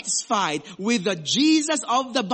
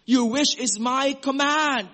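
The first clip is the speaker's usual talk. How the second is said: slow, grand genie granting wishes; lightly voiced genie at your service; 4 dB louder than usual. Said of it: "Jesus will miraculously come out of the lamp and he will say".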